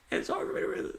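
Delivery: whispered aside. Real, not acted. Quiet aside while reading.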